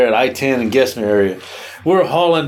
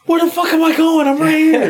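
exasperated disbelief. Retold or imitated. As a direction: throw up your hands at the app. Retold frustration at bad route.

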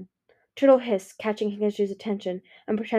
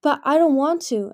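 higher, louder whiny refusal; petulant; 6 semitones higher, 6 dB louder than usual. A narrator's reading. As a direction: stamp your foot with the words. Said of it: "Anemone stamped her foot".

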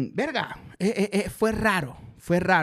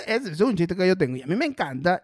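normal talking voice

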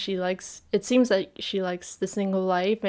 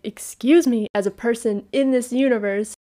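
indignant, higher, louder mock-offended retort; sassy retort; 4 semitones higher, 4 dB louder than usual. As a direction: sass back like a gossip retelling. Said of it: "And I was like".

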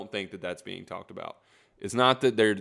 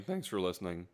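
voice crack; 7 dB quieter than usual. Real, not acted. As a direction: voice cracking mid-phrase. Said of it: "Nobody heard that voice crack".

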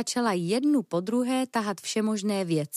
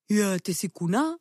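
surprised blurt. Acted. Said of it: "vyhrkl Bergman překvapeně".

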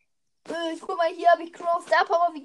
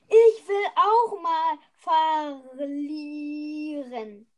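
mock whining; 4 dB louder, much slower than usual. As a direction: fake whine, slowed on verlieren. First take of whine. (gespieltes Jammern)

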